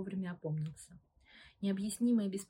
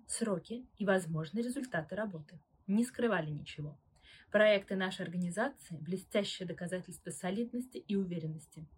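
lawyer's measured voice; 4 dB louder than usual. Acted. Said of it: "Голос чеканил фразы, как серебряные монеты".

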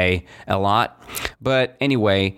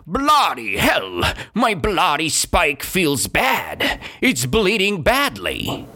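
mild mock fury, a touch higher; furious shout; 5 semitones higher, slower than usual. Beaver complaining that his tooth bleeds, mock furious. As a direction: act a cruel beaver's pained outburst, lightly. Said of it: "Spaghetti was furious. He shouted".

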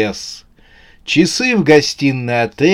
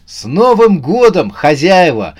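higher, louder festive greeting; cheerful exclamation; 5 semitones higher, 5 dB louder than usual. A narrator's reading. Новый год greets his hosts in the dark, exclaiming. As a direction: call out brightly to the whole house. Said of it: "воскликнул он в темноту".

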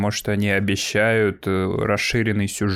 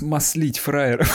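russian prison slang; 5 semitones higher, slower than usual. Pretend. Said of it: "будем ботать по фене".

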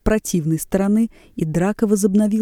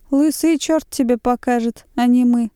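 puffed-up, raised defiant retort; 6 semitones higher than usual. A narrator's reading. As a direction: draw yourself up and snap back. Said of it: "сказал, приосанясь".

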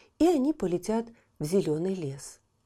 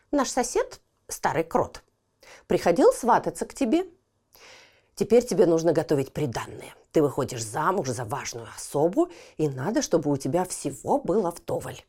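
put-on old mouse voice; 2 semitones lower than usual. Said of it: "старуха-мышь сказала Дюймовочке".

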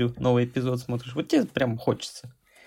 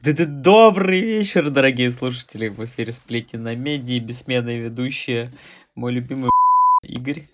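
late night dj; 4 dB louder than usual. Pretend. Mock radio show opening.

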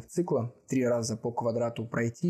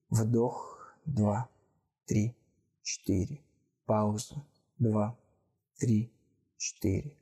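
slow breath counting; slower than usual. Acted. Leads breathing exercise counting.

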